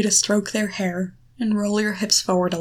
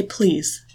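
"please" as a statement, falling at the end; period, not question. Shown as a demonstration. Coach showing how to answer a doubtful partner, "please" said as a statement. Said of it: "say it with a period and not a question mark".

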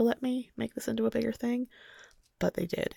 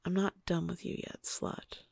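whispering; 5 dB quieter than usual. Acted. Partner's threat, whispered.

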